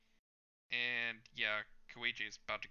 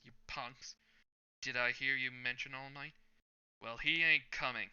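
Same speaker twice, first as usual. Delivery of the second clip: a tougher, heavier hero entrance; the hero's entrance done the intended way; gruff hero voice; 2 semitones higher, 4 dB louder than usual. Acted. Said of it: "I wanted to do this in a certain way".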